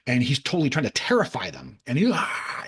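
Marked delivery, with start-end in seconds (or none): 2.1-2.6 hushed, voiceless mock scream. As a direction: fake a scream without full voice. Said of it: "and he's screaming at them".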